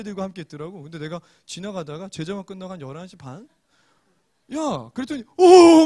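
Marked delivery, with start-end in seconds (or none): 5.4-5.8 높고 크게 터뜨리는 과장된 "오!"; 목사님과 마주쳐 화들짝 놀란 척. Retold or imitated. 졸업생이 클럽에서 목사를 보고 놀람. (화들짝 놀란 소리 흉내)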